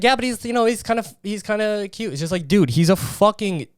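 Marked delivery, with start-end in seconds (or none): 0.0-2.1 put-on higher, fading soft and dreamy girlish voice; imitating a smitten woman. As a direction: coo it like a woman excusing her crush. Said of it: "Women pick them up and it's like".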